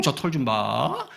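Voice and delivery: slow, drawn-out jeer; teasing, acted slowly; mock taunting. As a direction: stretch the words to needle. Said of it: "막 약 올리는 거예요".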